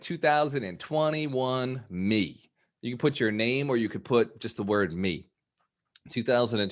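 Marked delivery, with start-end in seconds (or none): 0.0-2.5 slow dictation. Shown as a demonstration. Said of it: "I want you to write".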